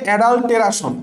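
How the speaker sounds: অ্যাডাল্টেরাশন spoken as adal-te-ra-shon; spelling pronunciation. Shown as a demonstration. Teacher answering own question, spelling pronunciation. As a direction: give অ্যাডাল্টেরাশন a full "ra" before "shon". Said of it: "এখন থেকে উচ্চারণ কি হবে?".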